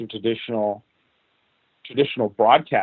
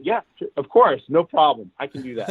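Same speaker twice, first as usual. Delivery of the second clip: bright, higher, breezy yes, hiding doubt; breezy confident yes; 4 semitones higher than usual. Retold or imitated. To his Sony bosses, a breezy overconfident yes. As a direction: toss off the yes like it's easy.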